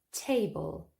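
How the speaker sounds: TA-ble, first syllable punched; stress on first syllable. Shown as a demonstration. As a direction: say table with weight on TA. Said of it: "the stress is on the first syllable".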